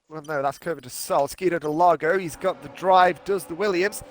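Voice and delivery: motorsport commentator. Acted. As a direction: lively race play-by-play. Live play-by-play commentary.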